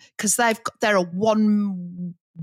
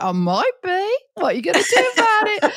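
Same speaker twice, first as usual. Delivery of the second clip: high-pitched cheeky comeback; playful high-voiced challenge; mock defiance; 11 semitones higher, faster than usual. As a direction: answer back high, quicker at the end, half laughing. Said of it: "I'm like".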